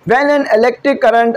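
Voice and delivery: slow, measured read-out; reading a statement. Real, not acted. Teacher starts reading the law to students, slow read-out. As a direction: read it out word by word, slowly. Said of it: "statement से पढ़ देता हूँ".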